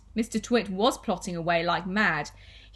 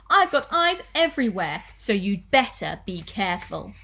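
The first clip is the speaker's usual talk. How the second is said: cackling gloat; 4 dB louder than usual. Acted. Wife warning husband she has eyes everywhere, cackling gloat. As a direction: crow it, then settle into a warning. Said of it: "cackled Missus Twit".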